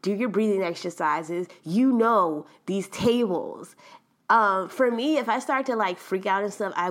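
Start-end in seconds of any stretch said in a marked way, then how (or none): 0.0-3.8 self pep talk. Retold or imitated. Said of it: "But I was like".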